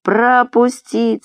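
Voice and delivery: long-drawn, high order; commanding call. A narrator's reading. Murat ordering the crowd aside, commanding. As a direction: stretch the command out over a crowd.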